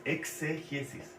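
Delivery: exégesis with the X sounded as "ks", drawn out; X clearly sounded. Shown as a demonstration. Teacher spelling out a new word for the class, X clearly sounded. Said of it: "Con X".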